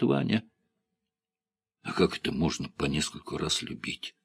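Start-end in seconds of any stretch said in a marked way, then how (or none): 1.8-4.1 musing, quiet and thoughtful; раздумчиво. A narrator's reading. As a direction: wonder aloud softly. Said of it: "раздумчиво произнёс Иван Степанович". (задумчиво, негромко)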